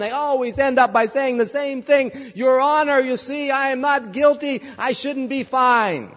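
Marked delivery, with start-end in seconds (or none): 2.3-6.1 pleading defendant. Retold or imitated. Defendants' excuse to the judge.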